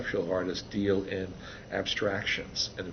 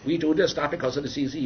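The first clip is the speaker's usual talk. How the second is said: higher, louder, speechmaking tone; mock presidential speech; 7 semitones higher, 5 dB louder than usual. Imagined Kennedy announcing animation goal, mock speech. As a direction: orate like Kennedy at a podium. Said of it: "Kennedy didn't go".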